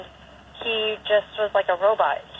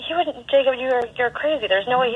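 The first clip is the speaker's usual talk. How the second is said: higher, protesting incredulity; retold disbelief; 4 semitones higher than usual. Mother to her son about his dad's threat, incredulous. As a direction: retell a mother's startled denial, pitched up.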